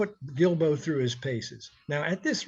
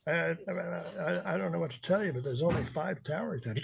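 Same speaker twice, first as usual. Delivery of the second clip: nervous; 6 dB quieter than usual. Retold or imitated. Nervous DJ reporting.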